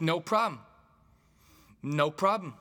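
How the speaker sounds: high, loud put-on reply; heckler impression. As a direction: imitate an oblivious audience member calling out. Oblivious loud audience member acted out.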